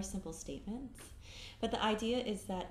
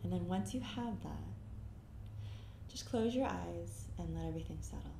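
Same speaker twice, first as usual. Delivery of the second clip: calm meditation guide, long pauses between phrases; guided meditation. Acted. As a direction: guide them gently inward, leaving silence after each phrase.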